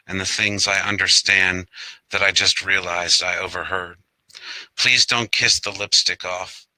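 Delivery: measured poem reading, phrase by phrase; poetry reading. Acted. Poet reads Yellow Moon Jello to an online audience, poetry reading. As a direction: recite it line by line, letting phrase ends drop.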